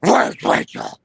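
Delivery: shouted Batman line. Pretend. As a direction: scream the question desperately.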